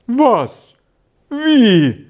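high, loud startled questions; utter astonishment. A narrator's reading. Innkeeper hearing guests will leave tomorrow, loud high astonishment. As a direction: exclaim in amazement. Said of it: "rief Herr Pagani in der höchsten Verwunderung aus".

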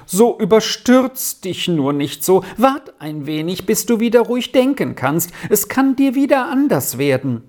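plaintive pleading, climbing in pitch; wailing. A narrator's reading. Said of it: "jammerte Marianne".

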